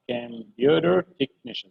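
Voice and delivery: كمبيوتر تكنيشن said slowly, syllable by syllable; كمبيوتر تكنيشن spelled out by ear; slow computer technician. Shown as a demonstration. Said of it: "بتنطق حلوة".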